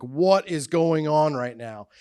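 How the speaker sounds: slow, incredulous question; comically baffled; retold disbelief. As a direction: draw it out in mock bewilderment. Shock at naked man brought in.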